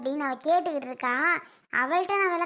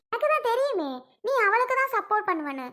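indignant accusation; 4 semitones higher than usual. Acted. Daughter-in-law quarrel, accusing mother of bias.

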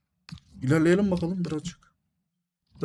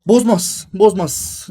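defiant shrug; 4 semitones higher, 5 dB louder, much slower than usual. Real, not acted. Reacting to a card.

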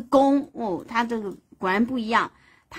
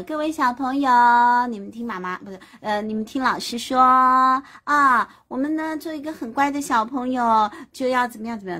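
gentle teacher; 3 semitones higher, 4 dB louder than usual. Retold or imitated. A teacher coaxing little kids, mild sweet coaxing. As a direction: coax like a kindergarten teacher. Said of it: "慢慢跟你商量的".

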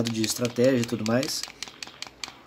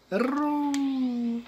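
high exclaim; 11 semitones higher than usual. Real, not acted. Missed jump in game.

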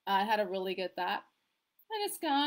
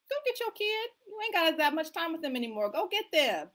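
urgent push; 7 semitones higher, 3 dB louder than usual. Acted. Urging parents to pick up kids.

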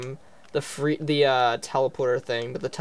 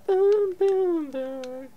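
high excited boom; much slower than usual. Pretend. Acting out explosions in game.

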